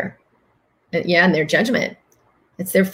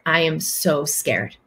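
retold fear; 2 semitones lower, 4 dB quieter, slower than usual. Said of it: "And he started crying".

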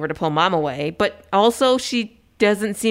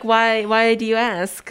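higher, slow, hesitant stall; mock nervous; 4 semitones higher, much slower than usual. Boyfriend stalling the mom's question, mock nervous. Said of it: "he is so nervous".

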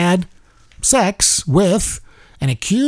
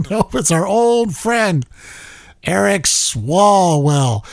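laughing; 2 semitones higher, slower than usual. Real, not acted. Laughing while correcting himself.

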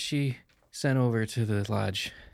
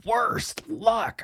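whisper; 8 semitones higher, much slower than usual. Acted. Whispered sympathetic remark.

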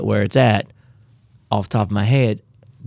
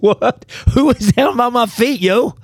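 jolted awake, half yelling in surprise; startled Boaz; 12 semitones higher than usual. Retold or imitated. Boaz waking to find Ruth at his feet, high startled yell.

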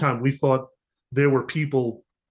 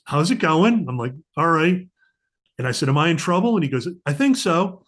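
mock cheery; 4 semitones higher, 3 dB louder than usual. Mock-cheery exchange about trouble.

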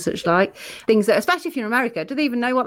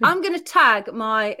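slower, deliberate second go; careful retry; slower than usual. Real, not acted. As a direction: say it again slowly and clearly. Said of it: "She tries to say that".

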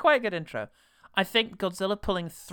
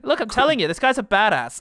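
emphatic; 8 semitones higher, 9 dB louder than usual. Real, not acted. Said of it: "mock insistence".

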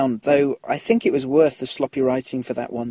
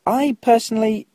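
whisper; 9 semitones higher, 5 dB louder than usual. Real, not acted. Aside in a whisper.

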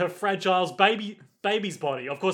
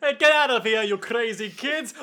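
put-on grumpy old man shout; 6 semitones higher than usual. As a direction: bark it like an angry caretaker. Caretaker chasing kids away.

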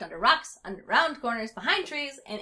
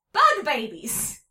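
loud, slow, stretched yell; 5 semitones higher, 10 dB louder, much slower than usual. A narrator's reading. Rumpelteazer yelling from a branch, slow and loud. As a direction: yell it out while dangling. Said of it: "Rumpelteazer yelled".

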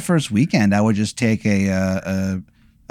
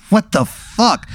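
laughing disbelief; 9 semitones higher, much slower than usual. Real, not acted. Player reacts laughing.

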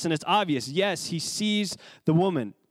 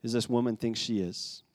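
lower, softer mock scorn; a hint of scorn; 4 semitones lower, 4 dB quieter than usual. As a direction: sneer it quietly at the woman.

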